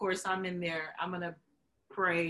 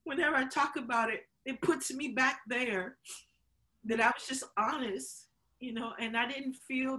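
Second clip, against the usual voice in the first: choked up; 4 semitones higher than usual. Real, not acted. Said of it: "I'm getting choked up".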